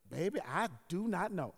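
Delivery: slow, drawn-out imitated old lady. Old neighbor answering the pastor, imitated old lady voice. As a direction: stretch each word like an old lady. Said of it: "so it's my old lady voice".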